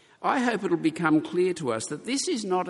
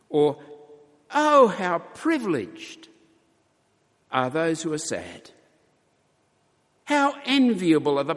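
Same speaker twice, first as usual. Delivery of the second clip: paradoxical exclamation. Retold or imitated. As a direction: gush as if sorrow were good fortune. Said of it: "He seems to be saying something like".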